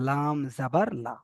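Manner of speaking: লা short, with no stretch; short vowel. Shown as a demonstration. Teacher showing students that লা takes no stretch, short vowel. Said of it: "টান দেওয়া যাবে না".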